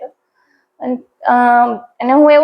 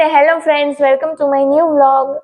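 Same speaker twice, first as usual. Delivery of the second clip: slow, drawn-out vlog welcome; vlog intro greeting; much slower than usual. Shown as a demonstration. Mother prompting her daughter to greet viewers, slow sing-song. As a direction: spell out the channel greeting slowly for the child to copy. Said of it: "બધાને કહી દે".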